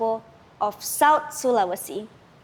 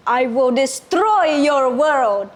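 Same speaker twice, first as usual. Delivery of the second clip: serpent roaring; 5 dB louder than usual. Acted. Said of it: "the serpent roared".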